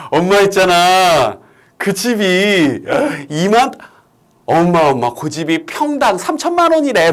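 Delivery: lightly acted child with big news; child telling mom. Child tells mom the house's price, lightly acted eagerness. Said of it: "뭐 이런 식으로".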